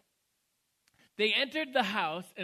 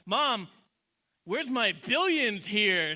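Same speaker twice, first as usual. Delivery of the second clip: slow, drawn-out mock indignation; mock furious child; 4 dB louder, slower than usual. Kid confronting mom over missing birth gifts, mock indignant. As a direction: play at a kid demanding what's owed. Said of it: "like, furious".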